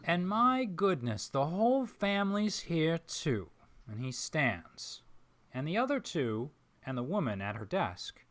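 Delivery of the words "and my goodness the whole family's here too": put-on Southern accent. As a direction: greet him like a delighted Southern gentleman. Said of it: "Southern accent".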